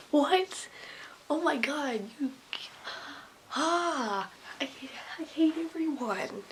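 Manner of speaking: high, hammed-up disbelief; mock exasperation. Student reacting to teacher's excuse, mock exasperated. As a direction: throw up a dramatic, exasperated protest.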